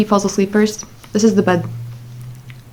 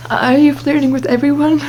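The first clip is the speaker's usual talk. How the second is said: higher, laughing mock question; acted nonchalant teasing; 6 semitones higher than usual. Teasing the crush to act nonchalant, high and giggly. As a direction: tease through put-on giggles, pitched up.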